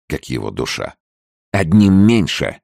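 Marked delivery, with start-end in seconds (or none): 1.5-2.6 loud, high, drawn-out battle cry; fierce cry. A narrator's reading. Leda crying out as a foe falls, fierce shout. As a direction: cry it out fiercely, pitched well up. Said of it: "свирепо крикнула Леда".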